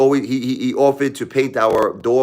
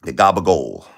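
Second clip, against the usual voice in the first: Tony Soprano gabagool; 4 semitones lower than usual. Retold or imitated. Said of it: "Tony Soprano".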